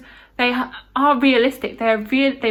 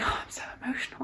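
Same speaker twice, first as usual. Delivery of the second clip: hushed whispered confession of feeling; 15 dB quieter, faster than usual. Retold or imitated. Reviewer recalling tearing up on reread, whispered. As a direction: breathe it out like a secret.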